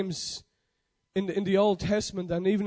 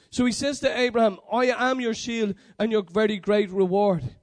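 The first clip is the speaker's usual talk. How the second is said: louder, emphatic preaching voice; 5 dB louder than usual. Acted. Preacher quotes God urging Abraham not to miss him, preaching. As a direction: press it home to the congregation.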